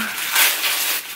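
long voiceless sigh. Real, not acted. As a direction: let out a long breath, overwhelmed. Overwhelmed by the gift.

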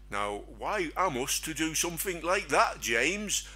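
a hint of a daft, dopey voice. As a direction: play the fool lightly for a moment. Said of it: "I'm saying it in a daft voice".

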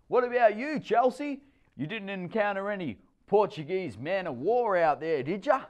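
very high, loud jolly teasing; teasing stepdad. A narrator's reading. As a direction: needle her cheerfully.

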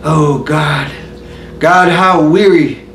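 measured, brooding stage monologue; Hamlet soliloquy recitation. Acted.

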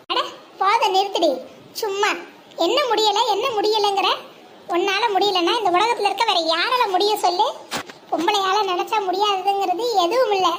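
scolding pep talk. Acted. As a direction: cut off her self-pity with forceful encouragement. Scolds friend for saying she can't. (கண்டிப்போடு ஊக்கமூட்டி)

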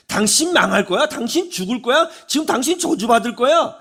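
mildly acted prophet's threat; doom pronouncement. Preacher mimics Jonah's unwelcome message to Nineveh, doom pronouncement.

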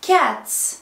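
"كاتس" ending in a crisp ts; final s sound. Shown as a demonstration. Teacher drilling cats for pupils, "كاتس" ending in s. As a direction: model "كاتس" as cats, with a voiceless s. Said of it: "اس، برافو عليكم".

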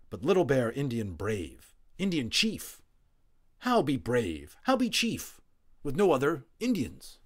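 high, loud chief protesting; proud Little Bear. A narrator's reading. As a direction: demand how a chief can be a chief alone.

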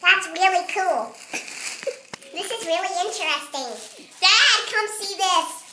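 helium voice. Real, not acted. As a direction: speak through a lungful of helium. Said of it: "I am gonna do the weird talking helium voice thing".

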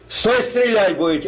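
sentry shout. Retold or imitated. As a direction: call out like a sentry on duty. Sentry warning before shooting.

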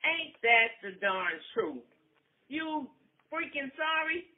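high, sarcastic sneer; sarcastic retort. Acted. Wife throwing his apology back, a sarcastic retort.

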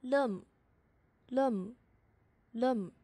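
teacher stretching out each lum slowly; drawn-out syllable demo. Shown as a demonstration. Teacher showing students the final consonant, slowly drawn out. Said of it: "加上这个收音怎么读？".

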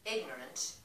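deliberate verse recital with weighted pauses; poem reading. Acted. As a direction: set the first word apart, then build through the line. Begins reading another poem.

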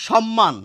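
সম্মান said as "shom-man"; palatal sh, double m. Shown as a demonstration. Teacher reading the second written form, সম্মান as "shom-man". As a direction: start সম্মান with sh and hold the m. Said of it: "তালব্য স দিয়েছি".

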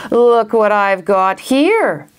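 slow, drawn-out gloating; taunting villain. Acted. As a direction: dangle the secret before the heroes. Villain taunts with stolen page.

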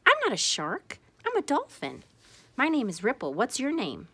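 put-on a bright, playful young dolphin; cheerful dolphin. Ripple introduces herself to the blowfish, cheerful and high.

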